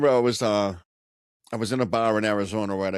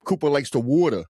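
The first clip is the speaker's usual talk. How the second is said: mock New York accent; 3 semitones higher than usual. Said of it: "and in New York".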